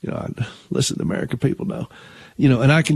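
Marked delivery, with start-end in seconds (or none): 0.0-1.9 lightly voiced Clinton, soft and airy; Bill Clinton impression. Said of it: "I do a pretty good Bill Clinton imitation".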